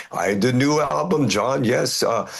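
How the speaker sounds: playful German accent impression. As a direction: mimic a German metal fan's accent. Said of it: "that's my German accent right there".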